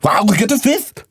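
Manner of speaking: put-on high Dutch-accented drunk voice; hammed-up drunk Dutchman begging for cream. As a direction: Dutch accent, pleading and tipsy. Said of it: "A drunk Dutchman".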